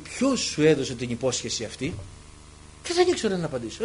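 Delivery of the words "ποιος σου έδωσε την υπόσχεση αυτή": voice of the Spirit. Retold or imitated. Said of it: "μιλάει το Πνεύμα το Άγιο".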